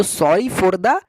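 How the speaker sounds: very slow, careful teacher read; slow model phrase. Shown as a demonstration. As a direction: repeat it slowly for students to copy. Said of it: "इस तरह को याद रखना". (धीमा, साफ़ उच्चारण)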